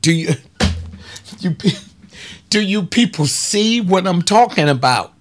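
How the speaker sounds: tickled and fired up; excited. Real, not acted.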